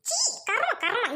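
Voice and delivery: high scornful disgust. Acted. Sister-in-law catching the couple, scornful disgust. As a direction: spit out the disgust.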